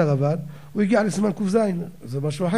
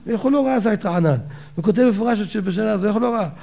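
raised-pitch, mildly imitated indignant outcry; retold outcry; 6 semitones higher than usual. Rabbi exclaims over an overlooked source, retold mild outcry. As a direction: imitate the rabbi crying out, without a full shout. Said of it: "הרב ככה הקים קול צעקה".

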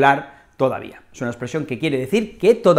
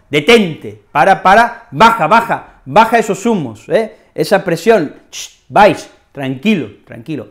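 calming someone down; 3 dB louder than usual. Shown as a demonstration. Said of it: "Es como".

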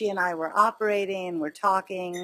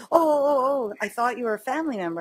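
higher, louder imitation of a flustered apology; mock flustered backpedaling; 6 semitones higher, 5 dB louder, faster than usual. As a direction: imitate someone hurriedly backtracking. Retold intruder flustered, backpedaling.

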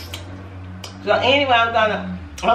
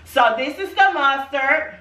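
popular voice; 4 semitones higher than usual. Acted. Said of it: "that's my popular voice".

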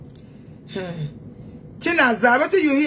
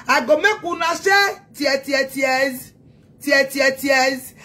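taunting shout; slower than usual. Real, not acted. Shouting at rival fans, gloating taunt. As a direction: shout the threat with relish.

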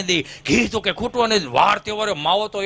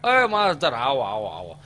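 grandfather hailing teacher; 2 semitones lower, slower than usual. Retold or imitated. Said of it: "દાદા હાથ મારે".

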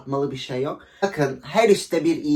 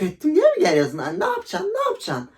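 much higher, mocking taunt; 14 semitones higher than usual. Daring the ex to come over, high mocking taunt. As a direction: needle him in a high, teasing voice.

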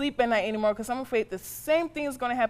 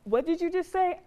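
sharp challenge; 6 semitones higher than usual. Acted. Mother challenges muttered curse.

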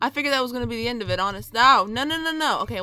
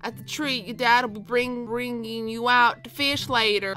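lightly put-on Southern mom; a hint of Southern in a proud parent's voice; Southern accent. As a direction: slip into a mild Southern accent. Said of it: "I don't know why this turned southern".

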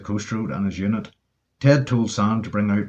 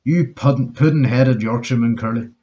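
exasperated call-out. Acted. Ted calling back from the cab to scold Curly. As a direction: berate him, then spell it out. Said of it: "and called out".

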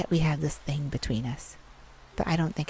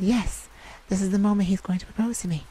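excited; 4 semitones higher, faster than usual. Acted. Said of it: "my heart began to race".

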